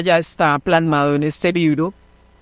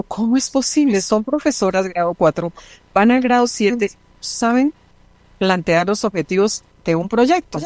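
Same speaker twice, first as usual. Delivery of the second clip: lightly raised pitch, incredulous question; retold disbelief; 4 semitones higher than usual. A teacher recalling her shock at colleagues, mild disbelief. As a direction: ask it as if you can't believe it.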